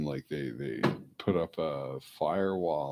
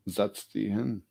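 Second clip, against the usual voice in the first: German command; 4 semitones higher, 3 dB louder than usual. Shown as a demonstration. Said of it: "I'll pull out the German".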